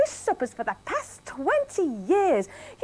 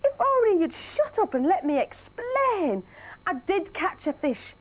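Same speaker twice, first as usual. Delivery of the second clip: higher, louder cross telling-off; scolding wife; 8 semitones higher, 4 dB louder than usual. Acted. Wife Millie scolding her husband, high and cross. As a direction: give silly Billy a proper telling-off.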